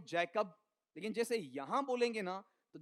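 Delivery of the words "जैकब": जैकब with the weight on जै; stress on first syllable. Shown as a demonstration. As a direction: lean on जै, let कब drop. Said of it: "इसमें बोलते हैं तो यहाँ तो है".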